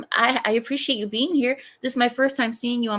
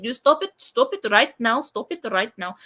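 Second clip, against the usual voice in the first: playful mock Indian accent scolding. Shown as a demonstration. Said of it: "wanna see me go Indian".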